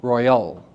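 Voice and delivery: ROYAL as ROY-AL, bouncing off the Y; bounce off Y. Shown as a demonstration. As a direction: let ROYAL break after the Y, into AL. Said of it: "bouncing off the Y syllable sound".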